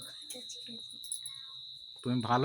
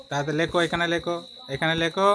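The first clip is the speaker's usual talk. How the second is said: urging; 4 semitones higher, 4 dB louder, faster than usual. Real, not acted. Hurrying child to write.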